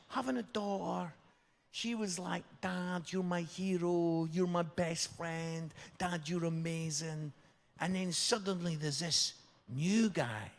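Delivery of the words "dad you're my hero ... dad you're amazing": soft, tender praise; gently gush, keeping the voice soft; adoring. Retold or imitated. Daughter praising her dad as her hero, adoring.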